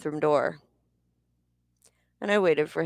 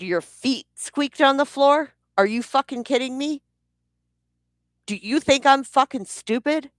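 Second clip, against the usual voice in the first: incredulous angry shout; 9 semitones higher than usual. Retold or imitated. Wife mocking her husband's lame excuse, incredulous shout. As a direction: throw his excuse back at him, outraged.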